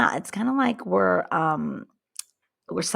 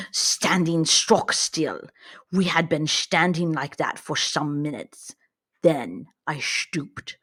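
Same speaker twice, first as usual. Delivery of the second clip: put-on Russian accent. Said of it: "like my Russian accent did".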